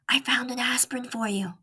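soft unvoiced whisper. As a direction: breathe it so nobody wakes. Mouse whispers to sick boy.

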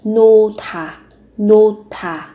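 "nota" with h and t merged into a breath-released t; aspirated linking. Shown as a demonstration. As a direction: link the sounds in "nota", slowly, t aspirated. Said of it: "phụ âm hờ và tớ kết hợp". (nối âm "nota", bật hơi âm t)

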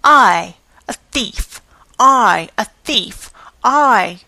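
wild, broken shrieks of outrage; hideous indignant cries. Acted. Old concierge to managers accused of theft, shrieking outrage. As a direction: spit each cry out, half choking. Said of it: "noisy contest full of hideous interjections".

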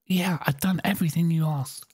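whispered complaint; whispered grumble to the game. Real, not acted. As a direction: breathe it out, unvoiced.

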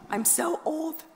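a high, unvoiced whisper of mock dread; whispered panic. Recalling being nineteen and feeling ancient, a whispered mock panic. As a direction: breathe it out like a secret confession of age.

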